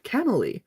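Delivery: Camille said kam-uh-lee, stress first; cute mispronunciation. Retold or imitated. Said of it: "the way he said it was just so cute".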